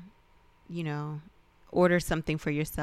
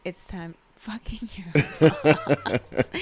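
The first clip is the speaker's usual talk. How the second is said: laughing; 7 dB louder, much slower than usual. Real, not acted. Repeats the joke while laughing.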